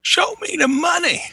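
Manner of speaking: high, slow shouted movie line; Cuba Gooding Jr. Retold or imitated. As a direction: belt out the famous movie catchphrase. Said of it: "you're not gonna do a Cuba Good".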